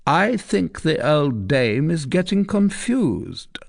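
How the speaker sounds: hint at her lie; sly commander. Acted. Tristan to his men about the recluse, sly and slow.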